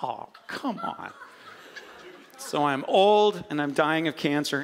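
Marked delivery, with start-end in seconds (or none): 0.0-1.1 exasperated laugh. Retold or imitated. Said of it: "I'm like".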